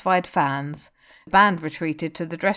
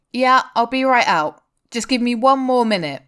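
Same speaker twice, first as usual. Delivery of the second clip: pleading; 6 semitones higher, 6 dB louder than usual. A narrator's reading. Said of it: "Han pleaded".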